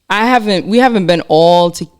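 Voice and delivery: holding back tears; choking up. Real, not acted. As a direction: voice catching with emotion. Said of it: "I'm choking up here".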